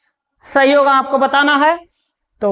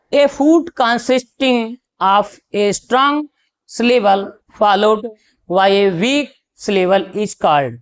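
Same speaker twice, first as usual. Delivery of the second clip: slow, deliberate dictation pace; slow question read; 2 semitones lower, much slower than usual. Acted. Teacher reading a quiz question to students, very slow and deliberate. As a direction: spell out the question word by word for students.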